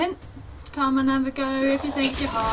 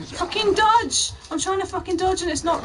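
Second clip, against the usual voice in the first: angry yell; 7 semitones higher, 4 dB louder than usual. Real, not acted. Gamer yelling at unresponsive controls.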